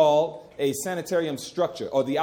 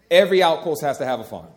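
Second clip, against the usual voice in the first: every word driven home louder; preacher repeating his point with louder force; louder emphatic repeat; 2 semitones lower, 7 dB louder than usual. Shown as a demonstration. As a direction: hammer the point the second time. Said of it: "repeated with more force".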